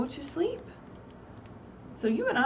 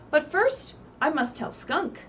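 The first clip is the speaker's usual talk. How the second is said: higher, louder storybook character; Snail's eager voice; 5 semitones higher, 4 dB louder than usual. Acted. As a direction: make Snail sound eager.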